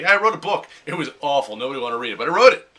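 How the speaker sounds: cheerful bragging, ending in a loud proud push; mock brag. To friends, proudly bragging about a failed book. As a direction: show off a flop you still finished. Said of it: "you can brag about it".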